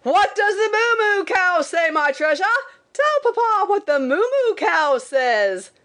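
insistent papa in a high put-on voice; father's mock shout. A narrator's reading. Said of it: "again he would shout".

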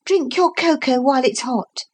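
a hint of mothering him; motherly. A narrator's reading. Lucy handing Philip cocoa, lightly motherly. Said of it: "she said in motherly accents".

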